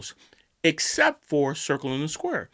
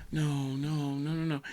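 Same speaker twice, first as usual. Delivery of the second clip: mock despair; 2 semitones lower, 11 dB quieter than usual. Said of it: "best performance on a phone call".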